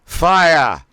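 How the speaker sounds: fire, shouted high and loud, air dumped at once; sharp thrust of fire. Shown as a demonstration. Diaphragm exercise, coach blasting fire out sharply. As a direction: blast "Fire" out quickly and sharply with a Boston sound. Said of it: "pronounce it as fire".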